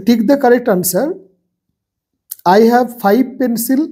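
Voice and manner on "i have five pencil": slow dictation. Shown as a demonstration. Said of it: "আর এখানে আছে pencils".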